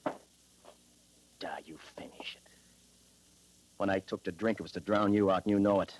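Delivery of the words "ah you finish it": whisper. Acted. Drunk man hands over drink.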